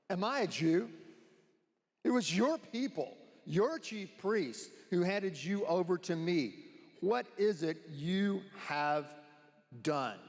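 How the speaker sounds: slow, hammed-up sarcasm; sarcastic Pilate. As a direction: play a scornful governor, dragging out the words. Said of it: "Here's my sarcastic response".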